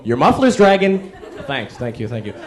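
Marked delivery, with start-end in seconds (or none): 0.0-1.1 slow, a touch too earnest; helpful stranger. Retold or imitated. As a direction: point it out helpfully, slowly. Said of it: "who's gotta go".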